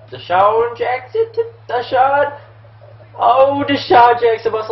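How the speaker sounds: high, loud, stretched-out cheering; excited play call. Real, not acted. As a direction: yell the player's name as the play breaks open. Sudden big play interrupts story.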